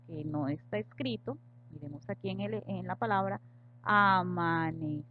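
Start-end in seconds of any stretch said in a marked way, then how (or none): 3.9-5.1 "amanecer" said slowly and louder, with "cer" hit hardest; stress on the last syllable. Shown as a demonstration. Teacher demonstrating unwritten stress to students, slow and emphatic. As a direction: draw out "amanecer" and land firmly on "cer". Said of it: "Este es el acento prosódico".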